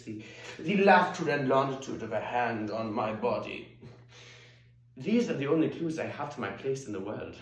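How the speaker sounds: theatrical East German cabaret storyteller; Hedwig, reminiscing diva. Acted. Singer recalling her childhood to the crowd, theatrical and wry. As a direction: muse aloud to the audience, wryly.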